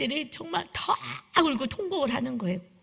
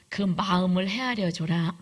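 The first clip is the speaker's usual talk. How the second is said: 1 calm inner voice; 2 semitones lower than usual. Retold or imitated. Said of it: "성령님의 소리가".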